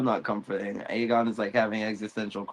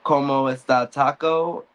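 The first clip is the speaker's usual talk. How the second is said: mock High Valyrian gibberish; 4 semitones higher, 4 dB louder than usual.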